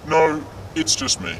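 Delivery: slow, disguised anonymous-source voice; anonymous interview voice. Acted. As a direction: keep the altered masked-witness sound. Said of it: "that's your real voice?".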